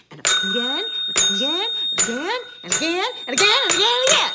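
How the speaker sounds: rising repeated "again"; building exasperation. Real, not acted. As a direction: build it up to a frustrated peak. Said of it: "turned into a rant".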